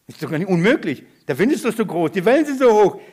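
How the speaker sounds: alarm building to loud and high; mounting mock panic. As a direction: act out fear growing with each phrase. Petrus gerät vor Wellen in Panik. (gespielte, wachsende Panik)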